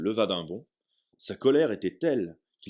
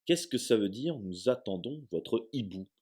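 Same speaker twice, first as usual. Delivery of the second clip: stammered; 3 semitones higher than usual. Acted. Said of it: "bredouilla-t-il".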